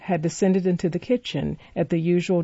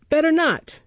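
Better not! thrown back high and scornful; mocking exclamation; 10 semitones higher than usual. A narrator's reading. Noah mocks Oliver's warning with an exclamation. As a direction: echo his words in mock outrage. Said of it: "exclaimed Noah".

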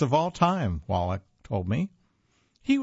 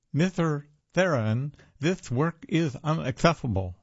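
mock lisp, a bit higher; lisping kid, slightly raised pitch; 4 semitones higher than usual. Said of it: "with a lisp".

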